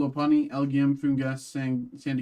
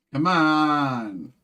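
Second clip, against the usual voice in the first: frustrated shout; 5 dB louder than usual. Real, not acted. Frustrated call for a hit.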